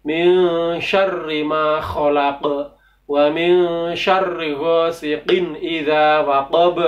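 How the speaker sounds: slow, careful Quran recitation. Shown as a demonstration. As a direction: recite it slowly, every letter clear. Recites the surah as model.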